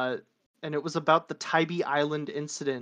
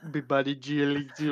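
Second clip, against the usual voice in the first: talking animal. Pretend. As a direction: babble it again like a critter. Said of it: "just do your Yeet impression".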